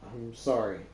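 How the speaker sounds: slightly softened apology. Acted. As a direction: ease gently into a sincere apology. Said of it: "Voice softens".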